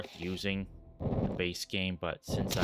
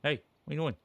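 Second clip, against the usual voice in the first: higher and louder, demanding an answer; louder indignant question; 8 semitones higher, much faster than usual. Acted. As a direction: call out sharply to the intruder. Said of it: "it's like".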